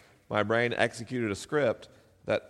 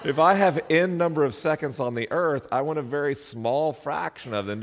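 laughing; 6 semitones higher, 4 dB louder than usual. Real, not acted. Laughing justification.

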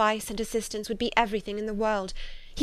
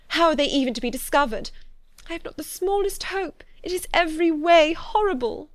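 higher, agitated voice, building louder; despairing; 6 semitones higher, 5 dB louder than usual. A narrator's reading. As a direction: lose all hope as you speak. Despairing over sister's hopeless situation.

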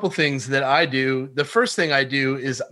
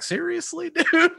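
high-pitched, laughing disbelief; mock incredulous; 14 semitones higher than usual. Sales caller mocking a prospect's excuse, incredulous and laughing. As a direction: squeak it out through a laugh, mock-baffled. Voicing what the upward inflection implies.

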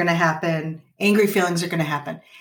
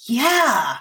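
higher, lightly voiced kid's agreement; kid agreeing; 5 semitones higher, much slower than usual. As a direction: answer like a child who feels understood, pitched up. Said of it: "And then they're like".

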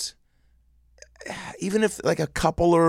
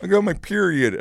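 much higher, whiny fake voice; high put-on voice; 9 semitones higher than usual. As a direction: squeak it out in a high voice. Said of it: "in that voice".

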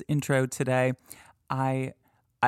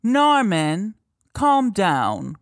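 high, louder voicing of the ghost words; mock EVP voice; 6 semitones higher, 7 dB louder, much slower than usual. Podcaster reading guess to listeners, high mock ghost voice. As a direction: mimic the spooky recording. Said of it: "Is it A".

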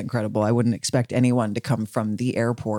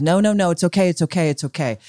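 imitating flustered reassurance, higher and fading; mock reassurance; 5 semitones higher, 3 dB louder than usual. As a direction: soothe everyone while panicking, mock. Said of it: "Leisha says".

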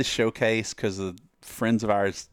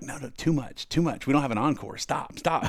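mock protest; 4 semitones higher than usual. Band begging a cheering crowd to stop, mock protest. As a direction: hurriedly wave off an encore, voice pitched up.

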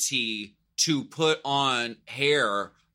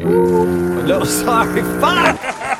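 loud, high cursing outburst; frustrated outburst; 7 semitones higher, 7 dB louder, slower than usual. Real, not acted. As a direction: swear at the slip. Hit the wrong button.

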